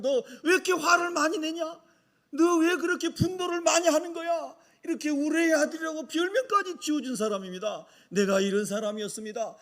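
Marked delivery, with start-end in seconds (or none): 0.0-4.5 higher-pitched reproachful questioning; mild acted scolding. Jesus asks John why he angers so much, mild scolding. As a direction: take the disciple to task without shouting.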